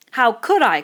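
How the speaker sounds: an outraged protest; indignant cry. Acted. Piggy protesting to Ralph, indignant cry. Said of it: "cried Piggy indignantly".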